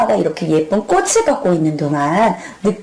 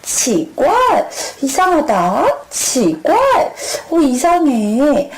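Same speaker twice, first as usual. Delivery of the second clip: put-on puzzled girl; 5 semitones higher than usual. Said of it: "할머니 목소리가 왜 이렇게 이상하시지".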